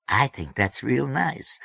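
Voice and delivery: slow, high South Alabama drawl; South Alabama accent. A narrator's reading. Plump Pink approving of George, South Alabama accent. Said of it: "said in an accent that".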